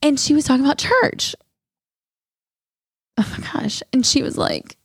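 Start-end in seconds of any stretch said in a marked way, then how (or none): 3.2-3.8 breathy, unvoiced, fighting tears; choked up. Real, not acted. Telling her story to her cohost, choked up. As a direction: hold back the tears. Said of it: "I'm not gonna cry".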